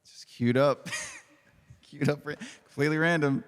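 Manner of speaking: pitch-shifted voice changer. Real, not acted. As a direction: talk through a pitch-shifting filter. Laughing through voice changer.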